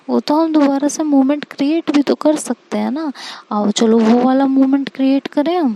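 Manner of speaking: put-on scared girlfriend trying to distract her partner; panicky pleading. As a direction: sweet-talk fast to dodge getting caught. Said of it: "Ishika बहुत घबरा रही होती है".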